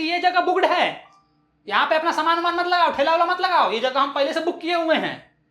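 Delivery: high-pitched scolding of a newcomer; mild acted yell; mock shouting vendor. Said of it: "वो बहुत ही ज्यादा चिल्ला के बोलती है".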